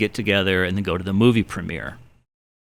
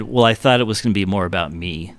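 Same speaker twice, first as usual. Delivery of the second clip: understated straight-faced retold quip; dry, retold sarcasm; deadpan sarcasm. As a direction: deliver the joke with a straight face. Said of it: "with a straight face".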